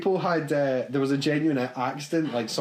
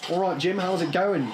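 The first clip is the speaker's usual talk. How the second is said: put-on Pam in Australian accent; 5 semitones higher than usual. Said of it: "Pam will come up and she'll go".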